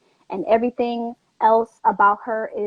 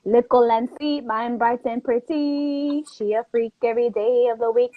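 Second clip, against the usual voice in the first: put-on Jamaican accent. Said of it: "Let me hear the accent. Go ahead".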